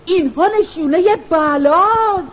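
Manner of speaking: frightened cry. Acted. Mother sees snakes and scorpions at the door, frightened wail. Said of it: "با ترس و لرز فریاد زد".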